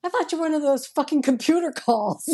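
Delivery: laughing. Retold or imitated. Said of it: "And he's like".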